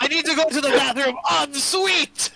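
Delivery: put-on high, silly French-accented outburst. Game master clowns for mocking players, high French accent. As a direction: ham it up as a cartoon Frenchman. Playing up the mocked French character.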